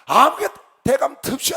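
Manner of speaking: shaman's summoning. Retold or imitated. Shaman calling the twenty-fifth spirit in, loud drawn-out summons. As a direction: call in a spirit at full voice, slowly. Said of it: "여기 무당이 서서".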